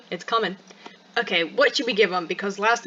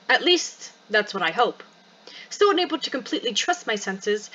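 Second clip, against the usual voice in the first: expressive read-aloud of a first-person story; story narration; 2 semitones higher than usual. Acted. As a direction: narrate the story with lively, measured phrasing. Reads game story narration.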